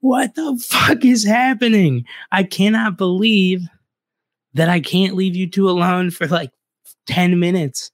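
mother bursting into the garage, high and loud; mom yelling. Retold or imitated. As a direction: play the furious mom bursting in, shrill and high. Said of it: "she whips the door open and she goes".

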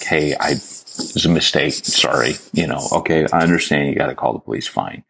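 low, easy apology, retold; cool, apologetic. Traveler retelling his apology to airport security, cool and apologetic. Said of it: "so cool about it and so apologetic".

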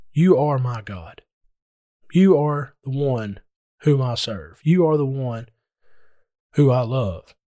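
slow, earnest words spoken to God; sincere prayer. Shown as a demonstration. Preacher showing the congregation how to pray, slow and sincere. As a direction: pray it slowly and mean every word. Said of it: "go ahead and say".

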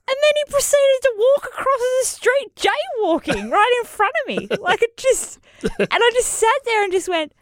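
high, amused recap; laughing. Real, not acted. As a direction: tell it still half laughing. Laughing recap of absurd story.

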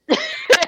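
short, high-pitched laugh; amused laugh. Real, not acted. Storyteller recalling her friend's question, amused laugh. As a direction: burst out briefly at the memory.

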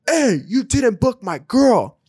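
drawn-out mock-menacing cholo voice. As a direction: imitate the tough boyfriend calling her out. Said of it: "straight up cholo".

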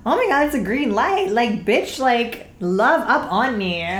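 high, loud, thrilled; excited. Real, not acted. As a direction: gush about it happily. Excited about compliments.

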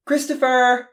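high, loud scolding of a name; scolding call. Acted. Mom scolding her grown son at dinner, loud and high. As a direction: snap his name like an outraged mom. Mom nearly throws a book.

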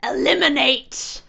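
slow drawn-out yell; shouting. Retold or imitated. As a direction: bellow it like a command. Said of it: "while shouting".

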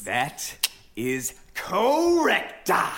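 drawn-out, slow showy Italian twist; hammy Italian flourish. Acted. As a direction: ham up the Italian. Actor showing off.

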